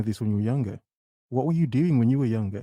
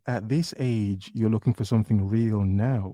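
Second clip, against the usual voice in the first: mocking repeat; slower than usual. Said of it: "What did you just say?".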